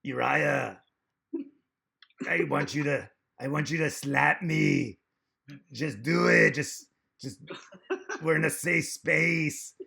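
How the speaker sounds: high, loud, slow mock German woman; hammed-up Schwarzenegger-like German demand; German accent. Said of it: "in her German voice".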